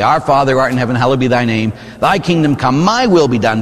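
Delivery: mock self-centred Lord's Prayer, as if God should serve you; hammed-up entitled prayer, pushing "my" where "thy" belongs; selfish prayer. Shown as a demonstration. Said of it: "if we prayed what we meant, we would say".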